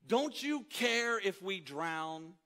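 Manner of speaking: high, slow, pleading cry of Teacher; frightened disciples begging their teacher; desperate plea. Retold or imitated. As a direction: beg like a man about to drown. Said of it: "And they say".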